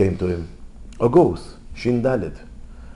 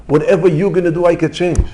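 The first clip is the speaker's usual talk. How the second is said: retold defiance, raised and louder; bold challenge; 7 semitones higher, 4 dB louder than usual. Rabbi telling God he can change any decree, bold and loud. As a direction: declare it boldly, pitched up.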